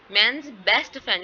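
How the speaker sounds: "best" stressed with a falling pitch, spoken slowly; slow example reading, lean on "best". Shown as a demonstration. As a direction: put the main stress on "best". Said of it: "किस चीज़ पे आ रहा है stress? बेस्ट पे".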